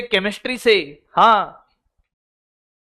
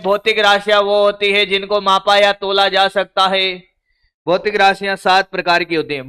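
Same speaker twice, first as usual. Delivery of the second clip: lightly mimicked student reciting notes by rote; mock rote reading. Teacher mocking how students cram notes, a light rote drone. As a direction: drone through the list like a student cramming blindly. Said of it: "गधों की तरह पढ़ने का".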